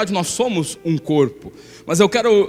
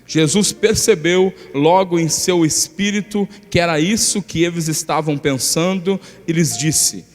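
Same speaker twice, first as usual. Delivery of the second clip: scripture reading. Acted. Pastor reading Mark two aloud, in a steady scripture reading. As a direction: read the passage out to the church. Reads the Gospel passage.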